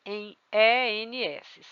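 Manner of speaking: jovens and E N S said very slowly; slow, deliberate spelling of the plural ending; slow spelled ending. Shown as a demonstration. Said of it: "Se eu fizer plural".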